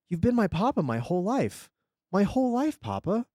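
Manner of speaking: put-on high, pleading little-boy voice, Russian accent; Russian-accented child. A narrator's reading. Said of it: "Russian accent".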